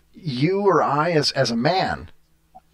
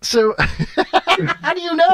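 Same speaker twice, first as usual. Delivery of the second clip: high, slow, laughing through words; laughing question; 13 semitones higher, much slower than usual. Real, not acted. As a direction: giggle the question out.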